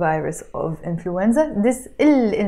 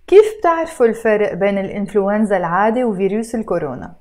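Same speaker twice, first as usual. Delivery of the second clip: rattled off at natural fast speed; read fast; much faster than usual. Shown as a demonstration. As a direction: run the whole question together quickly. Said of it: "you notice I read it fast".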